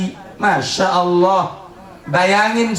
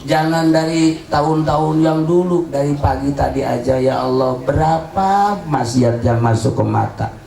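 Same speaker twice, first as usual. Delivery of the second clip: repentance prayer. Acted.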